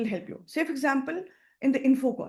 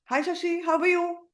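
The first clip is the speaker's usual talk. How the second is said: flat caller greeting; 6 semitones higher than usual. Shown as a demonstration. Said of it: "And I say".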